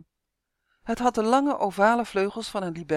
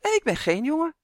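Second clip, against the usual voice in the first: high, huffy little elf; rather cross; 10 semitones higher, 3 dB louder than usual. A narrator's reading. The elf corrects Justin, cross and high-pitched. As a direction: object crossly, pitch jumping up. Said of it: "zei de elf bozig".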